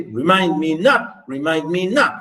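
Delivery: "Remind me not" in an even beat, landing on "mind" and "not"; metrical stress pattern. Shown as a demonstration. Teacher giving an example of meter, rhythmic stress. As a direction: scan "Remind me not" as weak-strong feet. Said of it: "Unstressed, stress, unstressed".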